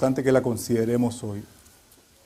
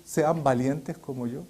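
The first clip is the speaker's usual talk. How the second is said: quiet echo, not boasting; 2 semitones lower, 5 dB quieter than usual. Shown as a demonstration. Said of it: "Puede usted decir".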